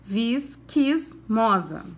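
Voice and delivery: "visquismosa" said very slowly, each syllable clear; slow, careful repeat. Shown as a demonstration. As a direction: draw "visquismosa" out for children to repeat. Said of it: "Caprichem na pronúncia".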